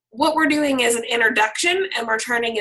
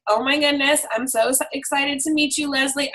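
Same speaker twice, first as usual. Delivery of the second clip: a touch of excitement, lightly upbeat; friendly, mildly excited greeting; 3 semitones higher than usual. Retold or imitated. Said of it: "I'll usually say something like".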